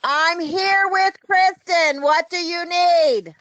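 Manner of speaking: slowed down, every word spelled out; slow and clear. Real, not acted. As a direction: say it slowly so he can hear. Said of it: "I can't hear you".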